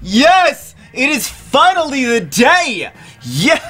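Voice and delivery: high, shrieking cries of joy; ecstatic shriek. Real, not acted. Gamer to viewers on finally reaching the day, shrieking with joy. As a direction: squeal it out like the wait is finally over. Finally getting a five star.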